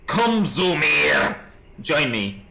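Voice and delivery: slow, drawn-out eerie call; creepy statue voice. Retold or imitated. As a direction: lure him in like a haunted statue. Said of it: "the statue whispered".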